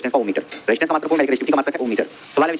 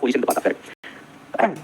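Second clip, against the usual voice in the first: extremely slow, drawn out word by word; slow dictation; 3 dB quieter, much slower than usual. Shown as a demonstration. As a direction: stretch every word for copying. (बहुत धीरे, खींचकर लिखवाना)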